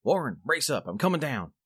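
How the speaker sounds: loud, resolute shout. A narrator's reading. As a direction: call down firmly and loud. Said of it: "I formed and shouted a resolution".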